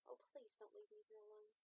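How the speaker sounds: high, soft little puppy voice; soft plea. A narrator's reading. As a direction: plead softly in a high small voice. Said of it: "she said softly".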